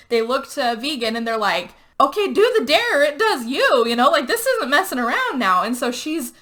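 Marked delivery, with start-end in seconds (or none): 2.0-5.6 high, emphatic retold urging; urgent insistence. Friends retold pushing the vegan to comply, urgently. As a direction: press hard, punching it out. Group urges vegan to obey dare.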